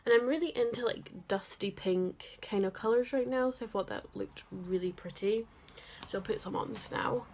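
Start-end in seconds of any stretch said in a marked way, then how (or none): 6.1-7.2 lips busy with lipstick; talking while applying lipstick; while putting on lipstick. Real, not acted. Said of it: "Sorry, I can't talk while putting on lipstick".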